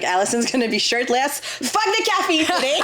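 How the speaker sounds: high, laughing excited gym guy; mock gym bro. Friend imitating gym guys excited she's shirtless, laughing. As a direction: hype it up like a thrilled gym guy. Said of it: "they would just be like".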